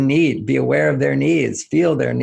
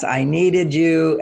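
needy; 4 semitones higher, much slower than usual. Retold or imitated. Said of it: "that's called needy".

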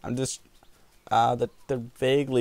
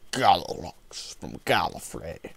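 dramatic whisper; 5 semitones lower, slower than usual. Acted.

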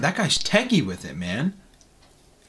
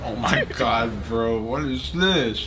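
laughing disbelief; 3 semitones lower than usual. Real, not acted. Amused disbelief slowly.

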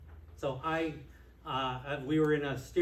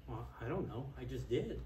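sheepish reply; 4 semitones lower, 9 dB quieter than usual. Retold or imitated. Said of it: "And I'm saying".

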